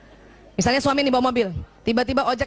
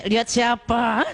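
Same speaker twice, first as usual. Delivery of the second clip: jealous wife; 4 semitones lower, slower than usual. Retold or imitated. Wife pinches jealous husband.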